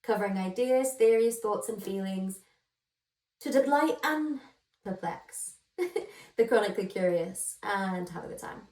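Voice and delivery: put-on bright, show-opening intro in a light American accent. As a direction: welcome the listeners like a US podcast host. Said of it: "I don't know why I did an American accent".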